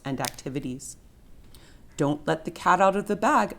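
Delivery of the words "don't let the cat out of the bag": a lightly put-on gravelly voice, a touch higher. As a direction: growl it to yourself with mock gravel. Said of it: "in a gravelly voice".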